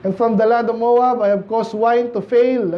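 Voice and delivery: slow, measured Bible reading; scripture reading. Acted. Pastor reading Isaiah to the congregation, slow and solemn. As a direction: read the verse slowly and solemnly.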